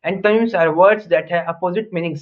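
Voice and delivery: very slow, each word set apart for the class; slow teacher dictation. Shown as a demonstration. Teacher dictating the definition to students, very slow and deliberate. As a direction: spell it out slowly so students can write. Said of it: "teacher reading out a definition".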